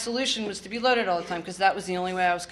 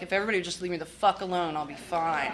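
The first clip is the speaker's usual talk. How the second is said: put-on defiant teen. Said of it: "my attitude was like".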